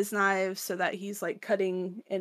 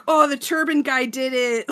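louder, higher mock excitement; super pumped; 5 semitones higher, 7 dB louder than usual. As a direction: imitate a thrilled spectator cheering a winner. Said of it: "like, super pumped".

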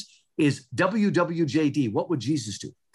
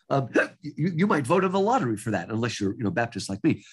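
talking through hiccups; hiccuping mid-sentence; 3 semitones lower than usual. Real, not acted. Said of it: "I'm sorry, I got the hiccups".

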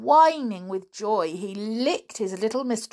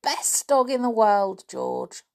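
warm; 5 semitones higher than usual. Acted. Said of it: "said Anne".

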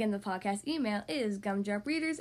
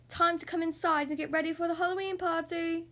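calling out; 4 semitones higher than usual. Acted. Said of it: "calls Daddy Pig".

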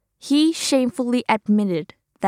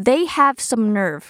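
slow model phrase; much slower than usual. Shown as a demonstration.

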